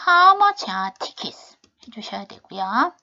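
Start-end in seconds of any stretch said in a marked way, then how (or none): 0.1-1.6 "How much are tickets?" starting high on How and falling at the end; falling tune on How much are tickets. Shown as a demonstration. Teacher showing students a question that falls at the end. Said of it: "문장의 끝은 내려주셔야 됩니다".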